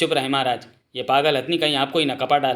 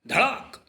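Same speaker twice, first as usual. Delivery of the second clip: high-pitched "dhadaak" crash; spoken crash sound; 9 semitones higher, much slower than usual. Acted. Storyteller imitating a crash, high spoken crash.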